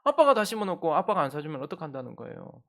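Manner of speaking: hammed-up whiny accusation; indignant child. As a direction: throw the blame back at dad. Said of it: "태도를 탁 바꾸는 거예요".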